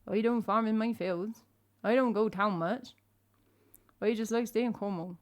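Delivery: put-on thick Cornish old farmer; broad, put-on rural Cornish; old man Cornish accent. Shown as a demonstration. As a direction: talk like an old Cornish countryman. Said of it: "that was like an old man Cornish accent".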